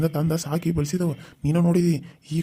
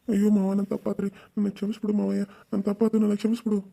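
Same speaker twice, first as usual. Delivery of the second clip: pleading; 4 semitones higher than usual. Acted. Caught nephew begs forgiveness.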